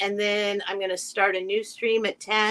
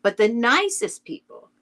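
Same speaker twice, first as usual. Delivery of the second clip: measured narration with lilting, stressed key words; storybook read-aloud. Acted. Reading Winnie the Pooh like to kids at school, lilting storytelling. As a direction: read to schoolchildren, pausing between phrases. Reads the introduction to listeners.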